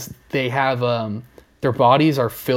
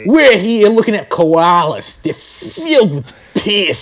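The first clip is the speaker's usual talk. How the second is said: higher, slow, louder documentary voice; mock nature narrator; 6 semitones higher, 6 dB louder, slower than usual. Narrating koalas for a mock documentary, hammed-up. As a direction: present the koalas like a hushed-turned-loud host.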